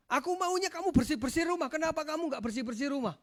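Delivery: high-pitched accusing complaint; imitated blame, voice pushed up; mock demanding spouse. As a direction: play a spouse firing off demands. Acting out spouses blaming each other.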